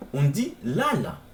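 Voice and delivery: "lala" slow, two even syllables; Swahili pronunciation. Shown as a demonstration. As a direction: say "lala" slowly, la-la. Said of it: "pour dire dormir". (« lala » lent, deux syllabes égales)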